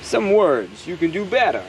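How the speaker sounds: halting, drawn-out celebrity impression; Christopher Walken. Vlogger musing on words done better, Christopher Walken impression. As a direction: lightly imitate an actor's odd pauses and swooping stresses. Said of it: "I can do a Christopher Walken".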